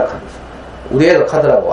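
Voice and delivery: ordinary delivery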